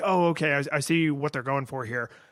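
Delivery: ordinary talk, nothing marked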